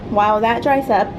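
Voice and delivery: breathless after climbing stairs; panting a little between words; out of breath. Real, not acted. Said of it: "Whew, I'm out of breath".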